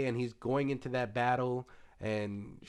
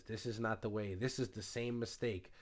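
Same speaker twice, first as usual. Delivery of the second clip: quiet realization; 5 dB quieter than usual. Retold or imitated. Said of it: "she realizes".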